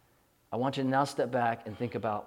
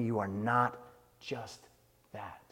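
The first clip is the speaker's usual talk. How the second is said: soft earnest repeat; 3 semitones lower, 6 dB quieter than usual. Real, not acted. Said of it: "Do you hear me?".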